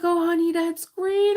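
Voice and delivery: high, loud gushing reaction; excited high-pitched exclamation. Retold or imitated. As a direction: gush loudly, pitch way up. Acted excited reaction to her return.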